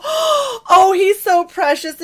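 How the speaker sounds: high, loud cooing; gushing coo. Retold or imitated. College girls fawning over the boy, high cooing. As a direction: melt over the adorable kid. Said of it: "They go, gasps".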